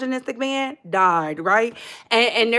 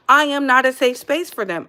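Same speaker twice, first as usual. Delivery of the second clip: usual speaking voice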